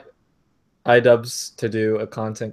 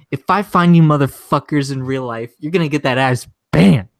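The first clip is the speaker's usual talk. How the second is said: loud mock threat; imitated rage; 3 semitones higher, 5 dB louder than usual. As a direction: rant like an enraged streamer, punching the last words. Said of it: "next thing he rages".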